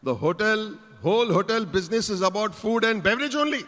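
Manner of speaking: exasperated interviewer's rebuke, lightly acted; scolding interviewer. Interviewer correcting a clueless hotel job applicant, exasperated scolding. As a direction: put the foolish applicant right. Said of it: "again he called me".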